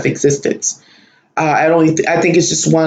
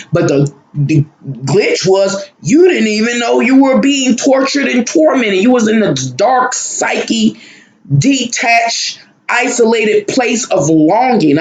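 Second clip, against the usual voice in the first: impassioned outcry; 6 semitones higher than usual. Real, not acted. Telling viewers about his hell dream, raised impassioned voice. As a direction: pitch jumps higher, voice straining with urgency.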